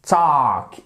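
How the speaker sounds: "Talk" with no L sound at all; silent L. Shown as a demonstration. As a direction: model "Talk" as "tawk", long open vowel. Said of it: "Le L ici, vous ne l'entendez pas".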